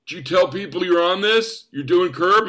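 messing with him. Retold or imitated. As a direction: grill the newcomer teasingly. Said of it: "he starts messing with me".

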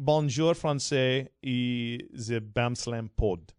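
slow, lightly put-on French accent; badly faked French, drawn out; mock French. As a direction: play at speaking French. Mock French greeting to listeners.

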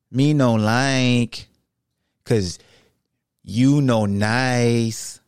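slow dopey caveman voice; dopey cartoon bellow. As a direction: drag it out like a dim brute. Caveman talk to Elon.

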